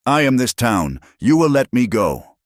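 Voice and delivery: trapped villain screaming at the courtroom, high and loud; frantic scream. A narrator's reading. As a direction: yell it up high, losing control. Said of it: "he screamed".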